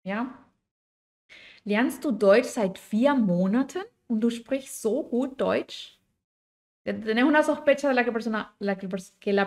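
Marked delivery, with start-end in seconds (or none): 1.6-6.0 mildly incredulous, lilting question; surprised question. Shown as a demonstration. Teacher acting surprise at a learner's good German, mildly surprised. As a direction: ask as if suspicious of the claim, voice rising at the end. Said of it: "como algo de sorpresa".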